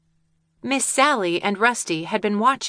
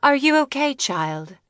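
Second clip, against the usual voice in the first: concerned; 6 semitones higher than usual. Acted. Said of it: "feeling concerned".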